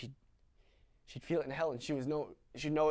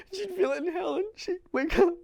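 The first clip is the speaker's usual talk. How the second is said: higher and louder, pleading harder; will her to wake up, voice climbing; desperate rising plea; 6 dB louder than usual. Acted. Boy begging his dead mother to wake, desperate.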